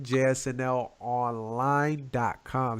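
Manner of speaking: slowed down, every letter spelled out; slow and clear. Shown as a demonstration. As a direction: read the address slowly. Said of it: "I say it again".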